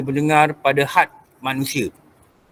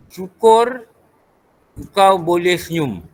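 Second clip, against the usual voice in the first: motivational speaker; slower than usual. Retold or imitated. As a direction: deliver it like a motivator, with a pause after the first word. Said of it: "macam ahli motivasi katalah". (gaya ahli motivasi)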